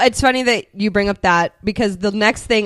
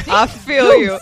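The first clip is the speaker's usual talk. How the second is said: sympathetic goose; 6 dB louder than usual. Retold or imitated. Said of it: "Louise is like".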